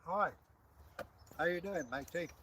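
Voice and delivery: talking round an ice cube; mouth full. Real, not acted. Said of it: "Especially with a mouthful of ice cube".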